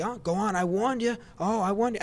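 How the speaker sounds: wag a finger with the voice, I warned you; mock warning. Acting out the warning character.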